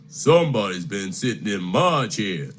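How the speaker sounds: a hint of a grumpy father bear; Papa Bear. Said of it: "said Papa Bear".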